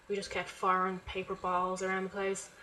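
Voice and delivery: talking slightly winded; breathy from talking so long; out of breath. Real, not acted. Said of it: "I'm getting really out of breath talking".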